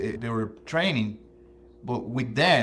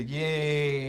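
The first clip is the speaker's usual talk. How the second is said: cheerleader cheer; 3 semitones higher than usual. Retold or imitated. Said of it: "Mom is the one that say".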